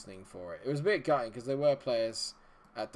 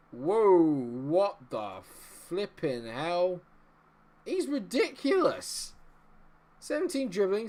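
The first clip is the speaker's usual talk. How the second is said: high, loud disbelief, drawn out in places; stunned and thrilled, voice leaping up; amazed; 7 semitones higher, 6 dB louder, slower than usual. Real, not acted. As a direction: gasp out your astonishment at a star find. Astonished by a player's stats.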